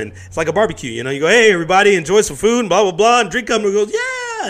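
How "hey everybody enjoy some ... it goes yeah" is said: high, loud call to the crowd; rousing host. Retold or imitated. Host greeting everybody at a barbecue, rousing and high. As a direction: call out to guests with a high, whooping finish.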